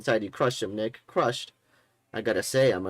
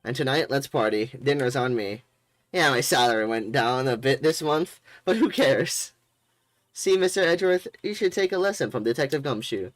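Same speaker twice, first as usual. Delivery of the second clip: loud, booming buddy voice; hearty detective; 3 semitones higher, 5 dB louder than usual. Acted. Detective thanking the lawyer loudly, hearty. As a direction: thank your pal at full volume.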